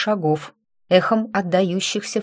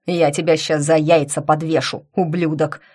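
заорал; 2 semitones lower than usual. Acted. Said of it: "заорал надсмотрщик".

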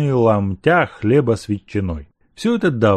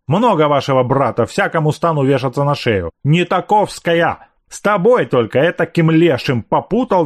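scolding housekeeper; 4 semitones higher, 3 dB louder than usual. Acted.

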